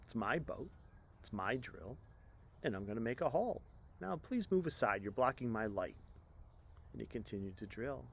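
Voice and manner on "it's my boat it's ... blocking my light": explained slowly. Acted. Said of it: "Fisherman explained slowly".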